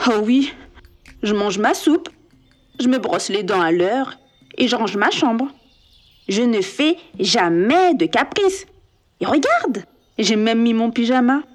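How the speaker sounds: lightly voiced cheeky boy; assured boy. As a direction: proudly list your good deeds. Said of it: "répondit plein d'assurance".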